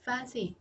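"Fancy" begun with pure air; voiceless f. Shown as a demonstration. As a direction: blow the f of "Fancy" without any voice. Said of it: "chỉ có âm gió thôi".

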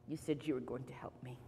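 low, hushed grievance; weary reproach. Acted. Man tells old lady she promised help, wearily. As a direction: plead quietly, utterly drained.

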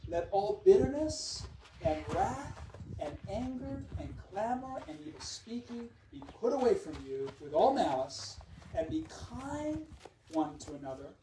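slow, emphatic verse reading from the pulpit; preacher reading closing verses with swelling emphasis; scripture reading. Acted. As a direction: stretch the key words and drive them home. Reads closing verses aloud.

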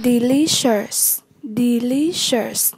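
"Delicious" stressed on its second syllable, LI. Shown as a demonstration. Teacher modelling vocabulary for learners, "Delicious" stressed on LI. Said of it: "nhấn âm hai".

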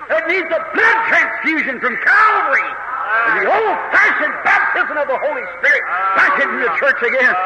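revival preacher in full flow; fervent preaching. Real, not acted. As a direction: drive each phrase home with punched key words.

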